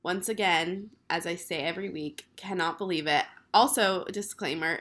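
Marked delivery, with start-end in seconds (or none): 0.0-3.2 hoarse from being sick; rough, still-recovering voice. Real, not acted. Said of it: "sorry about my man voice".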